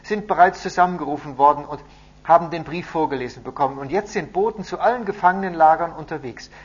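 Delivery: loud, high-pitched report; proclaiming. A narrator's reading. Messenger explains how the letter spreads, loud and proclaiming. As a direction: carry the news over a crowd.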